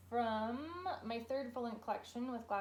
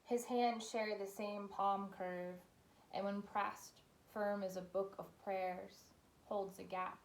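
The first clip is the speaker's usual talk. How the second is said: poet's reading voice, lingering on the phrases; poetry reading. Acted. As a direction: read it unhurriedly, with a pause after each image. Reads third poem aloud.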